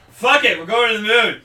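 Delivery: loud hammed-up rally; mock battle cry. Retelling the finale, both fighters yelling loud and hammed-up. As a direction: shout it like a reckless hero. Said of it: "they're just like".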